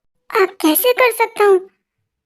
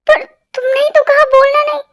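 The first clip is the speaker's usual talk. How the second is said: mock crying; 5 semitones higher than usual. Wife cries about being ignored.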